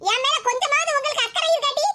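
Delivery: mother's indignant reproach; aggrieved, nagging complaint; angry scolding. Acted. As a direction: scold with mild anger. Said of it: "கோவப்படாதம்மா".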